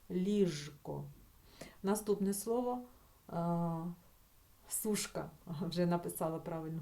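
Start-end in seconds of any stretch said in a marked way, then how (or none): 0.1-1.0 Ліжко with a buzzing voiced Ж, not Ш. Shown as a demonstration. Teacher shows correct pronunciation, voiced Ж in Ліжко. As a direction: keep the Ж voiced before К in Ліжко. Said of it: "це слово вимовляти з дзвінким звуком Ж".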